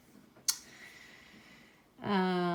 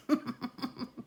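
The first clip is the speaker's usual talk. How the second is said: quiet teasing chuckle; real, hushed giggle; 2 semitones higher, 11 dB quieter than usual. Real, not acted. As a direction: laugh softly under your breath. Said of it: "Moi, je rigole".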